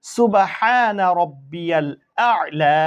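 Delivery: slow, drawn-out Arabic recitation; prayer recitation. Shown as a demonstration. Teacher recites the prayer for students, slow and drawn out. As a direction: chant each word slowly and clearly for learners. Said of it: "সিজদা হলো তাসবিহ".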